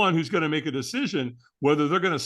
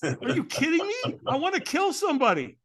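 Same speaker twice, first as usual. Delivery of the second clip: mock angry retort; 11 semitones higher than usual. Retold snapping back at caller.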